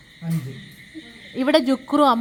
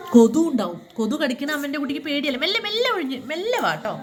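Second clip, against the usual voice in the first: gentle coaxing; 4 semitones higher than usual. Real, not acted. Coaxing child out from under bed.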